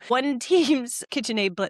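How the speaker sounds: put-on a terrible French Canadian accent; mock French accent, slow; bad French accent. Telling the cooking class story in a bad French accent. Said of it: "that was my French accent".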